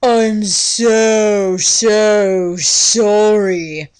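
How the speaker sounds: slow, lightly put-on dreamy boy's apology; voice like wet heaven. Hot boy apologizing to the girl he bumped. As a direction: stretch the sorry out, dripping and dreamy. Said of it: "he said in a voice like wet heaven".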